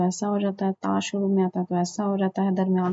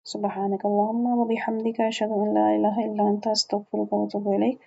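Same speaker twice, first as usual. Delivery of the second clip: closing prayer. Acted.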